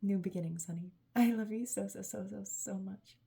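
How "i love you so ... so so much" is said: loud. Real, not acted. Loving outburst.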